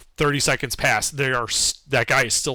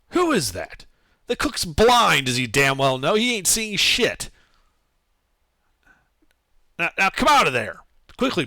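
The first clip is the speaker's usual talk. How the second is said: loud, impatient dwarf guard; gruff dwarf guard; 3 semitones higher, 4 dB louder than usual. Acted. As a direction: bark at the intruders to come out. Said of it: "you hear a response".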